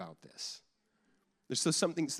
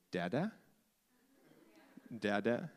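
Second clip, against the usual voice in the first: put-on cooing to baby; 4 semitones lower, 4 dB quieter than usual. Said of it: "I would lean over them and I would say".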